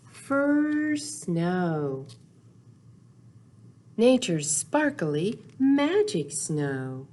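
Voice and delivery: unhurried storybook read-aloud, lingering on the rhymes; reading to children. Acted. Teacher reading Snow Days aloud to little kids, gentle storytelling. Reads picture book to children.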